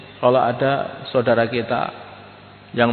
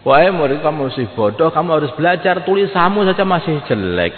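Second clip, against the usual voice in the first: stern teacher; 4 semitones higher than usual. Retold or imitated. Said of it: "kata-katanya guru kepada muridnya".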